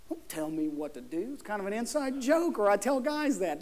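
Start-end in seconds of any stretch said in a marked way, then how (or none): 0.1-1.3 low, softer joking voice; mock stubborn guy. Preacher quoting his inside joke to guys, mock stubborn. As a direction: drop the voice low for a jokey refusal. Voicing people who resist orders.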